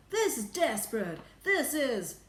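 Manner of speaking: high, loud alarm; desperate yell. A narrator's reading. Ground Control alarmed before being cut off, desperate yell. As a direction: cry it out urgently. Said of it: "yelled Ground Control".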